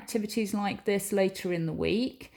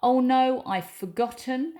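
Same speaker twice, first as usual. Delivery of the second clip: higher, louder sudden dismay; 4 semitones higher, 4 dB louder than usual. Shown as a demonstration. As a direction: gasp it out in dismay. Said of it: "exclamation mark".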